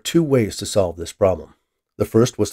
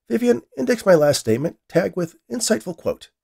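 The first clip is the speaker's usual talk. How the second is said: dictating an order; 11 semitones higher, 3 dB louder than usual. A narrator's reading. Scientist gives his AI an order.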